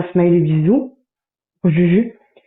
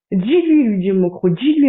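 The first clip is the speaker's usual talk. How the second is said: excited order; 2 semitones higher than usual. Retold or imitated. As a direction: fire off "Dis-lui" like an urgent order. Reads out an urgent order. (ordre lancé avec excitation)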